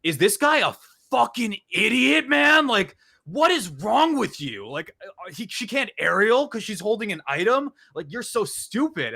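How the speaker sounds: high, mocking voice of angry chat viewers. Streamer imitating his chat insulting him, high mocking. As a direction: sneer at yourself as a toxic chatter would. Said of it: "They were just like".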